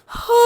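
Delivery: acted yawn. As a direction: let out a pretend yawn. Sleepy mother yawns at night feed.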